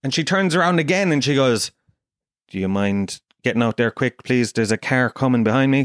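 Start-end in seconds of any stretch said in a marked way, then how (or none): 2.5-5.8 low-starting, controlled stern request; stern taxi driver. Retold or imitated. Taxi driver asking passenger to get out quick, stern. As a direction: imitate a driver losing patience politely. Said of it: "She's getting more stern".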